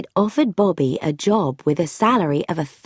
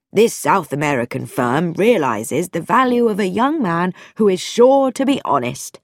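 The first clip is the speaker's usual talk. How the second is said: pompous vicar. Acted. Vicar preaches English honesty.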